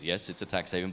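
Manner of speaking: mock-stern islander answer; sternly. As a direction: say it flatly and sternly, like a fact. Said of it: "very, very sternly said".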